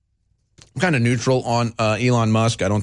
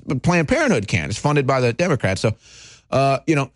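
sarcastic; 5 semitones higher than usual. Acted. Mock praise of Planned Parenthood.

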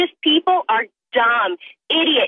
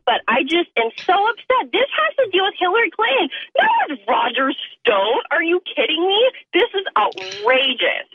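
emotional outrage; 3 semitones higher than usual. Real, not acted. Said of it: "with some emotion, with some intensity".

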